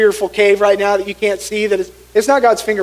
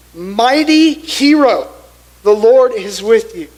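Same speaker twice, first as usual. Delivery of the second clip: proclaiming angel; 4 dB louder, slower than usual. Acted. Angel greets fearful Gideon.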